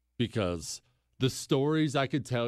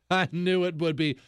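"I knew it would be" said through a laugh; amused self-praise with a laugh; 2 semitones higher than usual. Real, not acted. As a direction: chuckle at your own joke. Repeat with a laugh.

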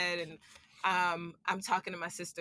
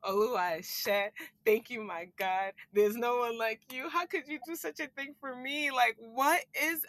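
joyful prayer; 3 semitones higher than usual. Retold or imitated. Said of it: "I was in pure joy".

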